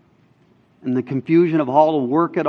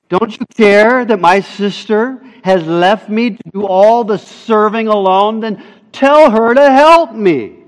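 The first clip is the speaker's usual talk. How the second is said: emphatic complaint; 4 semitones higher, 4 dB louder than usual. Retold or imitated. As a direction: build from complaint to insistence. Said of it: "It's so emphatic".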